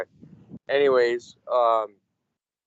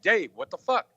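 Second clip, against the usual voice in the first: mock angry call; 10 semitones higher, 3 dB louder than usual. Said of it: "I'm gonna call you and be like".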